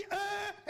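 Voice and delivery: "E" as a rounded eu in place of open eh; vowel swap demo. Shown as a demonstration. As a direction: say "E" like eu, showing the swapped vowel. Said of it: "là où il y a des eh".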